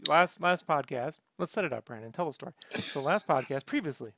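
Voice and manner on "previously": whispered show-recap announcer; mock recap intro.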